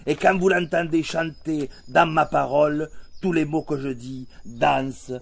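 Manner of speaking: declaimed verse in measured, ringing phrases; poem recitation. Acted. Performer reciting an ode to his own accent, proud poetic declamation. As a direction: recite it like a stage poem, slowing to the close.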